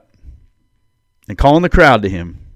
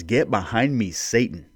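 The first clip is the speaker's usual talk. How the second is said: quiet rebuke; 7 dB quieter than usual. Acted. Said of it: "He rebuked him and said".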